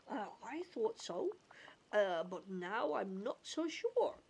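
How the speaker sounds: lightly voiced goofy cartoon character; unsure, drawn-out cartoon voice. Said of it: "goofy accent".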